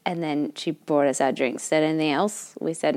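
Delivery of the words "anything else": imitating a mildly indifferent server; flat, uninterested. Waitress checking on the table, flat and uninterested. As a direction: ask it with no interest at all. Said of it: "Like that flat, not interested tone".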